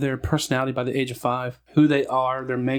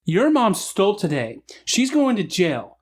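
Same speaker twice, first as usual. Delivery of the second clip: stern retold warning; 6 semitones higher, slower than usual. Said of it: "got down in the kid's face and said".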